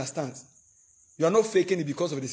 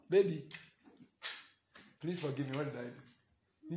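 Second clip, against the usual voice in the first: mock pleading; 2 semitones lower, 13 dB quieter than usual. Acted quarrel, pleading spouse.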